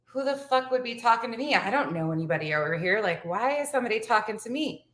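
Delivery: retold puzzled inner question; bewildered. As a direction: wonder who on earth it could be. Retold thought on being hailed.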